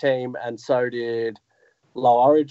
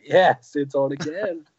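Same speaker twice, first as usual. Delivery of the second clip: cheering crowd imitation; slower than usual. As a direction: lightly imitate an excited crowd. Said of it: "everyone was like".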